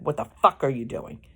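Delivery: quick, mildly angry quote, punch on FUCK; retold anger. Wife quoting husband woken from sleep, mock anger. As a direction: imitate his irritated snap at a modest volume. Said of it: "Really angry".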